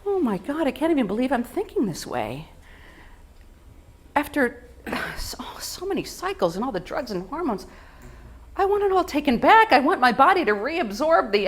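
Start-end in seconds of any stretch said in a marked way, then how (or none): 4.2-7.7 hushed whisper after a pause. Acted. Confiding to the audience about her IVF cycles, whispered. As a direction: drop to a whisper as if it hurts to say.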